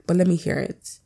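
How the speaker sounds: talking through a choke in the throat; words caught by a choking throat. Real, not acted. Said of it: "the way I'm choking is actually killing me".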